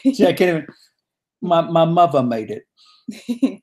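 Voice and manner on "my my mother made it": slow, attempted Cockney; Cockney accent. Shown as a demonstration. Struggling on the spot, halting Cockney accent. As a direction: try a halting Cockney line. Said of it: "I have a Cockney ver".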